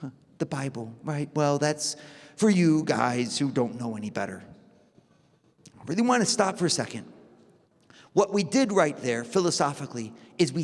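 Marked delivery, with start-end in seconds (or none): 0.0-4.4 put-on bored dismissive kid. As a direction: brush it off like a bored teenager. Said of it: "And the child just yawns".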